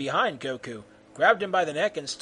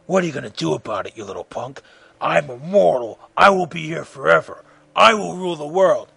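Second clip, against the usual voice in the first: put-on villain voice, building louder; boasting villain; 4 dB louder than usual. Freddy the villain boasts to Goku.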